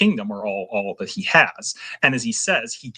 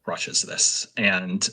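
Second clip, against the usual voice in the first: whisper; 3 semitones lower, much slower than usual. Real, not acted. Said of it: "whispered emphasis".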